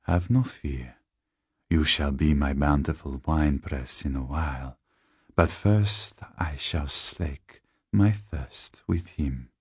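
slow, lightly voiced vampire; measured, hungry villain; sinister tall man. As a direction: savour the words with quiet menace.

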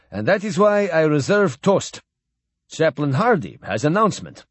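lightly voiced stately admiral toasting; old Russian admiral. Admiral addressing Captain Blaine at the farewell dinner, lightly voiced and stately.

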